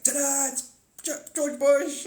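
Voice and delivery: high, showy ta-da; magician's reveal. Pretend. Alien magician revealing the puppet, high and showy. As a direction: present it like a stage magician, high and grand. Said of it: "it's like".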